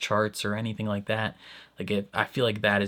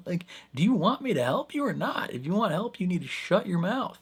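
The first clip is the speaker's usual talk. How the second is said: mock exasperation; 8 semitones higher than usual. Imitating exasperated staff.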